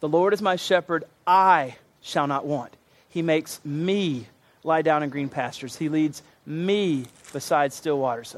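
the word "my" leaned on in "The Lord is my shepherd"; slow reading with "my" pressed; stress on my. Shown as a demonstration. Preacher reading the psalm to the church, stressing "my". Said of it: "I'm gonna emphasize a word".

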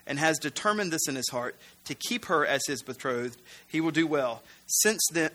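measured read-aloud of a Bible passage; scripture reading. Acted. Preacher reading Paul's letter to the congregation, measured. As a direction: read the passage evenly, slightly low.

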